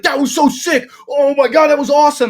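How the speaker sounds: high, loud, thrilled shouting; excited crowd reaction. Retold or imitated. Grounds crew losing their minds over a near hole-in-one, excited. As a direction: hype it up like an amazed onlooker.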